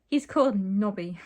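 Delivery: loud, fully voiced exclamation; mild acted scream. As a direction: announce it loudly, short of a scream. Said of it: "Titania screamed".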